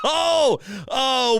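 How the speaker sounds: a sudden high-pitched laugh of disbelief; high bitter laugh. Real, not acted. Host laughing at his own team's terrible defense, bitter laugh. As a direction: laugh high and sour, then sigh out the oh.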